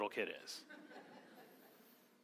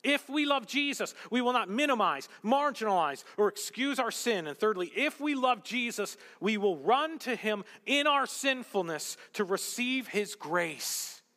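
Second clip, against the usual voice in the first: raised, loud-edged pulpit delivery; impassioned preaching; 6 semitones higher, 5 dB louder than usual. Acted. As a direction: press each phrase home to the congregation.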